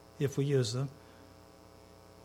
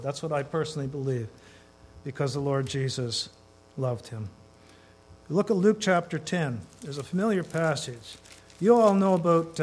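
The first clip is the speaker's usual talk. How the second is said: ordinary talk, nothing marked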